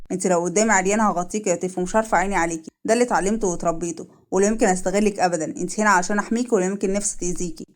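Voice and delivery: a hint of a steady, reassuring male character; lightly voiced protective man. Man promising to protect the woman, lightly voiced and steady.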